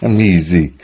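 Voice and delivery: "Mi zi" with a z sound; the mistaken z version, "Mi zi"; mispronounced word. Shown as a demonstration. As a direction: buzz the z in "Mi zi". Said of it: "mispronouncing this word".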